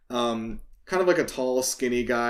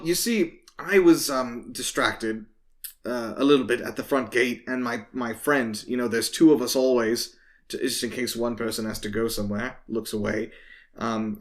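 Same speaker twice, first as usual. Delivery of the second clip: hesitant guard making excuses, trailing lower; lightly voiced town guard; 3 semitones lower than usual. Guard explaining his absence from the gate, hesitant excuse. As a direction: play a faintly sheepish guard, halting between phrases.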